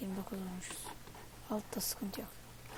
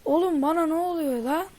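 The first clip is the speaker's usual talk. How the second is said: higher, louder baffled yell; frustrated shout; 4 semitones higher, 6 dB louder than usual. Real, not acted. Gamer yelling at the screen after getting shot, frustrated shout.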